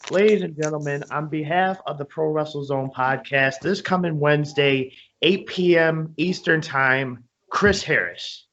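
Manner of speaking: guest announcement read, slowing on the time; show announcer. Acted. Podcaster announcing Wednesday's wrestling guest to listeners, announcer style. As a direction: announce a big guest to the audience.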